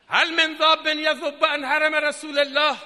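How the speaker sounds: loud, ringing proclamation; retold battlefield cry. Preacher repeating the plea for defenders, loud proclaimed cry. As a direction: sound the plea out over the crowd. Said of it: "فریاد زد".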